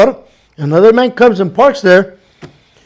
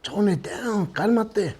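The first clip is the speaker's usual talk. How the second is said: tone it down; 14 dB quieter, slower than usual. Retold or imitated. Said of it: "his face was like".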